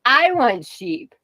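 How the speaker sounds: I want sheep drawn out slowly, pitch lifted; slow pleading wail on I want sheep; slow whine. Real, not acted. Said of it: "hardcore sheep farming problems".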